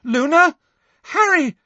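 high-pitched screamed names. A narrator's reading. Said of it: "Hermione screamed".

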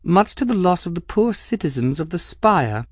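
cool, arch noblewoman with a sly edge; Cavendish voice. Acted. Cavendish needling the captain, arch and cool. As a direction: speak as the poised Madame Cavendish, lightly mocking.

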